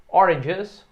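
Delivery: oranges said slowly and loud for the class to repeat; repeat after me. Shown as a demonstration. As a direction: draw out oranges as a model.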